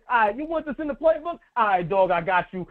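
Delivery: quick, breezy mock coach; voicing coach Mike. Imagined coach agreeing to players' play, breezy mock voice. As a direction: play the easygoing coach saying yes. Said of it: "you can come to Mike and say".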